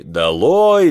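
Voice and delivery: high, loud crowd cry; demanding shout. A narrator's reading. Others in the crowd against speaker, demanding. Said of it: "требовали другие".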